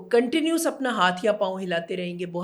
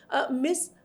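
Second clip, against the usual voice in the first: lightly voiced pupil, higher pitched; imitating distracted pupil; 5 semitones higher than usual. Child who lost track asks the teacher what's happening, mock confusion. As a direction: pipe up suddenly as a puzzled schoolchild, lightly acted. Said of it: "اب وہ بچہ ایک دم کہہ رہا ہے".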